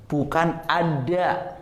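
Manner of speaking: "ada" said with the d from mid-tongue, slow and careful; wrong ada. Shown as a demonstration. Teacher shows the student's wrong sound, slowly. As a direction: show "ada" as the mistake, drawn out. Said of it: "Bukan, nah ini perhatian".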